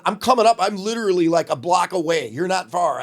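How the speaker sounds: high, loud indignant comeback; retold defiant retort. Young caller answering the radio DJ's dare, loud defiant retort.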